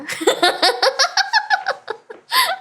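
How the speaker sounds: high rising giggle; high laugh. Real, not acted. Burst of laughter. (높은 웃음)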